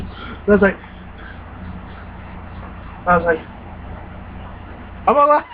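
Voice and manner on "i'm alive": high, bright yelp of relief; excited cry. Retold or imitated. Gamer yelping after surviving the skeleton. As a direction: blurt it out like you just survived a jump scare.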